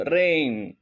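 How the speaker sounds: రెయిన్ without the g sound; silent g. Shown as a demonstration. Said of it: "జీ అనేది మనము pronounce చేయకూడదనమాట". (జీ పలకకుండా రెయిన్)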